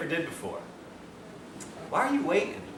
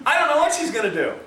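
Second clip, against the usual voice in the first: nervous laughing; 10 semitones higher than usual. Real, not acted. Recalling the woman walking over, laughing nervously.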